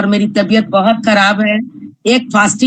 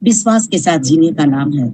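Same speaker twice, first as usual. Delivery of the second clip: measured, rhythmic poetry recitation with repeated lines; poem recital; 3 semitones lower than usual. Acted. Reciting her poem to an audience, measured and rhythmic. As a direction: recite each line like verses at a reading.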